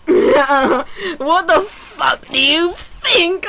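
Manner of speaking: slow, hammed-up angry question; mock angry. Reading the fic's heroine, asking in a hammed-up angry drawl. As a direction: drag out a mock angry retort. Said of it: "I asked angrily".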